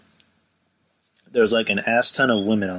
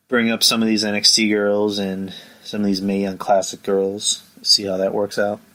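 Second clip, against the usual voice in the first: muffled. Real, not acted. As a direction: hand over the mouth. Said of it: "If I sound muffled, I'm putting my hand over my mouth".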